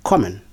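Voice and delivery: common with stress on COM; first-syllable stress. Shown as a demonstration. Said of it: "stress on the first syllable".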